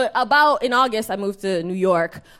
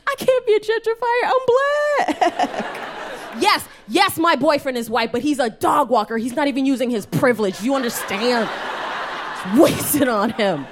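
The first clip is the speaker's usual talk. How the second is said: indignant retort; 4 semitones higher than usual. Retold or imitated. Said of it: "And I was like".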